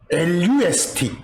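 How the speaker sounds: 엘유에스티 read out letter by letter, slowly; letters spelled slowly. Shown as a demonstration. Teacher to students, spelling 엘유에스티 slowly. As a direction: spell out 엘유에스티 deliberately, one letter at a time.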